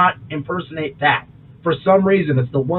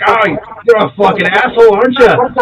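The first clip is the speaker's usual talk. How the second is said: loud mock British outburst, higher pitched; punchy imitation of an irritated Brit; Idris Elba; 6 semitones higher, 5 dB louder than usual. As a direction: attempt a British accent with a tag question on the end. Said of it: "The best I've ever heard was Idris Elba".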